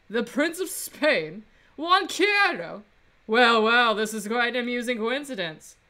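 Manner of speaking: haughty, sneering rival; arrogant prosecutor voice. Acted. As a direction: look down your nose at him. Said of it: "that arrogant voice".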